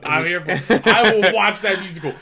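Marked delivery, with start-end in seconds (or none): 0.0-0.9 louder excited. Real, not acted. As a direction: repeat "I'm here for it" louder, with a rise on "it". Repeats line, slow then loud.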